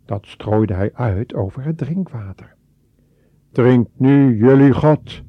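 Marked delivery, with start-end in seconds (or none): 3.5-5.2 louder, furious command; angry shout. A narrator's reading. Mozes shouting at the people over their idol, furious. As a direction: spit it out in anger. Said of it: "riep hij boos".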